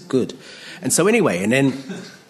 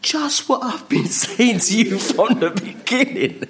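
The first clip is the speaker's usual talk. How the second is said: high, drawn-out reply broken by laughter; hammed-up exasperated answer, half laughing; Jesus; 10 semitones higher than usual. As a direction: stretch it out high through a laugh. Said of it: "and he says".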